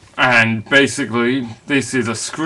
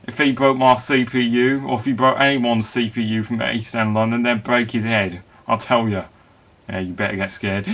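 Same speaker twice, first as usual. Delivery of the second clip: put-on East End accent. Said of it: "I'm just putting on this accent".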